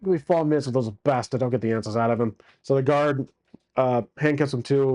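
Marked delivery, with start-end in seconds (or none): 0.0-2.4 put-on British accent. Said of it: "Oh, sorry, British accent".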